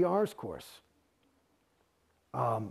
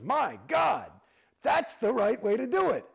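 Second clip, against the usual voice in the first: high, loud exclamation; hammed-up astonished cry; amazed shout; 9 semitones higher, 4 dB louder than usual. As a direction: shout it out in delight. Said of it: "and he goes".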